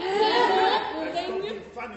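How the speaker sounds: hammed-up headmistress roaring at a cheeky pupil; furious shout. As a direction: roar it, stretching every word.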